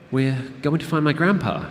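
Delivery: put-on a ten-year-old puffing himself up; self-important child. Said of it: "self-importantly".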